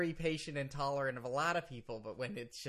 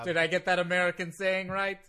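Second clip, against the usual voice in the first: put-on louder Russian-accented question; 5 dB louder than usual. Lawyer asks host about American saying, Russian accent. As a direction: foreign lawyer checking an idiom, Russian accent. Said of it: "You sound very Russian right now".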